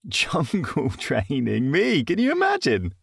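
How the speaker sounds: high, disbelieving exclamation; can't believe it, voice climbing; incredulous. A narrator's reading. Incredulous narrator aside.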